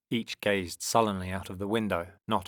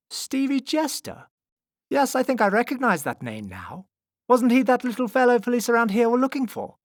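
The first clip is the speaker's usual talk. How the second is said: high, loud dawning recognition; strong man recalling; 9 dB louder than usual. A narrator's reading. Strong man recognises the missing boy's name, loud realisation. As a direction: loudly puzzle out the name.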